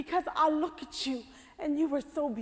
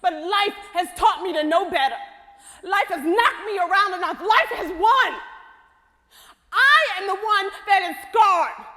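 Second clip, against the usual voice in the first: louder, hard-hit bitter lines; bitter outburst; 3 semitones higher, 6 dB louder than usual. Acted. Scarred woman hurling her pain at hope, loud and bitter. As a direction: throw her life's wounds back at her.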